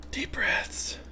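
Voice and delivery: soft whisper on the breath; whispered self-calming. Real, not acted. Calming down to draw the line, whispered. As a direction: whisper it to steady yourself.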